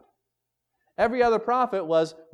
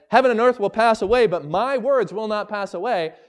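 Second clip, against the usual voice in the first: higher, louder proclamation; preacher proclaiming the verse at full voice; proclaiming loudly; 6 semitones higher, 5 dB louder than usual. Acted. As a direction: ring it out like a final verdict. Climactic quote of Jesus' words.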